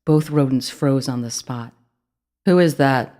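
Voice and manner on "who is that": loud, nervous call; sudden alarm; startled rat. A narrator's reading. The rat hears a voice in the dark, nervous call.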